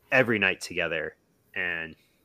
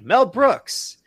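high, loud mock holler; retold shout; 12 semitones higher, 10 dB louder than usual. Comedian announces himself from the dark, retold shout. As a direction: imitate hollering your name across a dark room.

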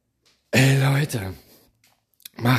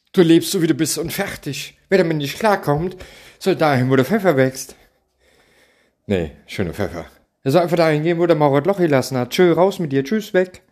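louder and higher, dismissive; fed-up rant; 5 semitones higher, 4 dB louder than usual. Real, not acted. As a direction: shoo them out, exasperated. (genervt und laut)

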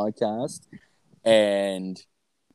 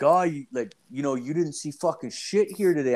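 higher, hammed-up hush threat; mock threat; 6 semitones higher than usual. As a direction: lean in like a thug. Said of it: "they're like".

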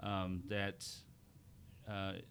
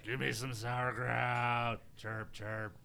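German cricket voice; 3 semitones higher, much slower than usual. Pretend. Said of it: "what the German cricket sounds like".

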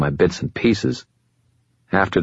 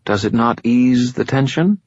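higher, silky voice of an ancient fallen angel, calm and superior; fallen angel Lashiel; 7 semitones higher than usual. Acted. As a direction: speak as a patient otherworldly being, a little above it all. Lashiel speaks.

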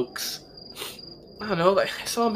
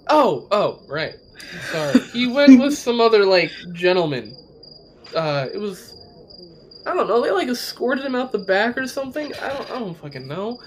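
panicking gamer; 3 semitones higher than usual. Acted. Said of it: "He just starts giggling".

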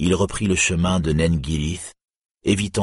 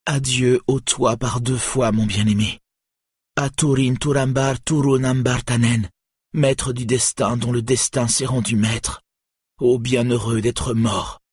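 anguished cry; 6 semitones higher than usual. A narrator's reading. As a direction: cry out your grief over his body. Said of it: "s'écriant". (adieu déchirant, aigu et fort)

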